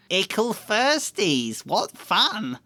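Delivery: high, slow mocking sing-song; Peeves taunting. Peeves taunting the first-years, slow high mockery. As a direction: savour each word like a naughty ghost child. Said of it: "Peeves says this a lot too".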